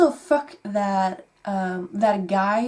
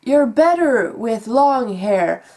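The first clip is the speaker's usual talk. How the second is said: mock condescending; 3 semitones higher, 6 dB louder than usual. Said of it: "it said".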